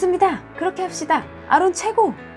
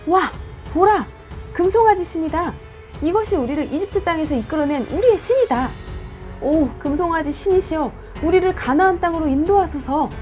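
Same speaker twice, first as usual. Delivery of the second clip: excited shouting; 5 semitones higher than usual. Acted. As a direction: cry out in awe at the idol. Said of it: "크게 감탄하여 소리쳤다".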